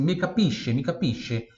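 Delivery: "capisce" said ka-PEE-sheh, with SC as SH; quoted question, "capisce" as ka-PEE-sheh; SH sound. Shown as a demonstration. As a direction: ask "capisce" with a soft sh before the final E. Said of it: "tem som de X".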